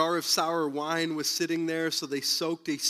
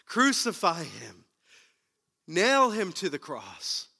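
crowd bellowing; 3 semitones higher, 3 dB louder than usual. Retold or imitated. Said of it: "The people bellowed".

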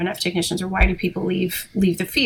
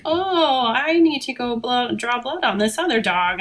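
higher, drawn-out "oh" of pretend remembering; feigned excuse; 4 semitones higher than usual. Pregnant technician dodging x-rays to colleagues, feigned casual excuse. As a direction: play innocent with a made-up excuse.

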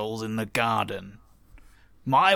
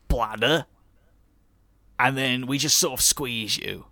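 character voice. Acted. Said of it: "I did not intend to stick to this voice".

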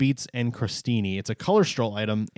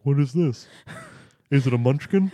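put-on light New England accent; baffled New England customer; New Englander. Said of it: "Okay, New Englander".

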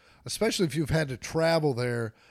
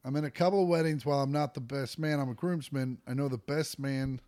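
quick re-read; 5 dB quieter than usual. Shown as a demonstration. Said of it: "fucking up words".

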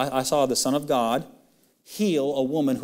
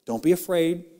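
loving, sweet; faster than usual. Acted. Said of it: "so lovingly and sweetly just says".

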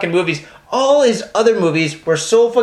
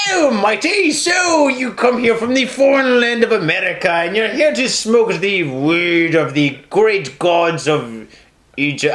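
fake Scottish accent; 2 semitones higher, slower than usual. Shown as a demonstration. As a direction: put on a grandly silly would-be Scottish accent. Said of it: "We gotta fake our accent".

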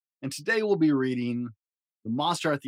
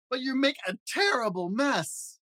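scolding shout; 11 semitones higher, slower than usual. Acted. Grover scolds reader.

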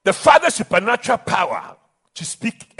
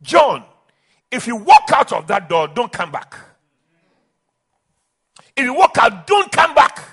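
father's ultimatum, raised in bursts; a hint of a stern father; stern warning; 4 dB louder than usual. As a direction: lay down the ultimatum firmly. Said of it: "And the father said".

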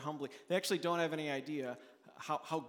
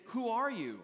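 demanding priest voice; 7 semitones higher than usual. Acted. Priests demand John's identity.

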